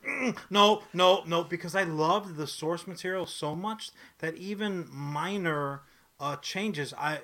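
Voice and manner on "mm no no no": dismissive no. Retold or imitated.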